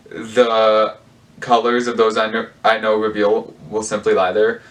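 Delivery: slight lisp, retainer in; talking around a new retainer. Real, not acted. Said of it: "excuse my lisp I get every now and then".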